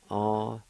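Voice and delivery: "Asquatisti" said once clearly; model pronunciation. Shown as a demonstration. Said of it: "It's pronounced like this".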